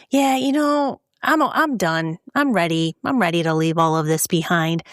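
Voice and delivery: a hint of a pleased-with-himself suspect, mocked; mocking Tad. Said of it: "he would sit there in the interrogation room and go".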